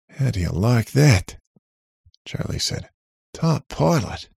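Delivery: robot voice. A narrator's reading. Robot Charlie speaks.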